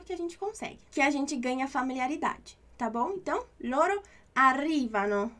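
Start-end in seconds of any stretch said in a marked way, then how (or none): 3.6-5.3 arrivano with the stress on RI; arrivano, punching the second syllable, ar-RI-va-no. Shown as a demonstration. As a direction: lean on the RI in arrivano. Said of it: "não é arrivano".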